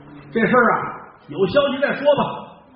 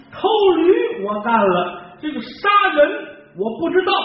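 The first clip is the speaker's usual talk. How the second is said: pleading confession; 7 semitones higher than usual. Acted. Donkey thief pleading before the magistrate, anxious and high. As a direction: beg the magistrate to believe him.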